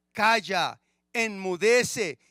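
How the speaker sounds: slow, firm command to the sea; commanding rebuke. Acted. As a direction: order the storm to be still, slowly. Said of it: "reprendió al viento y le dijo al mar". (ordenando al mar con voz lenta y firme)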